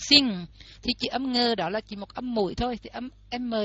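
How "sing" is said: "sing" ending on a ringing ng; English "sing" with nasal ng. Shown as a demonstration. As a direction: let "sing" close on ng. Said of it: "động từ sing là hát đó".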